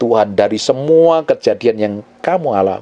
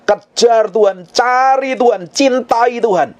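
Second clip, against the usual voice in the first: high preacher's rallying call; impassioned, high-pitched preaching; fervent exhortation; 9 semitones higher, slower than usual. Real, not acted. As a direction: urge them on in three rising commands. Exhorts congregation.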